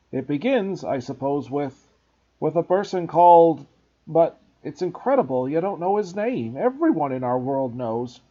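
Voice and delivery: loud hesitant giant; gruff, halting big man; Hagrid voice. Acted.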